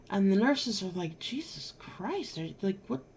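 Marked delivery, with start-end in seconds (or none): 1.2-3.0 alarmed whisper. Retold or imitated. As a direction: breathe it out in alarm.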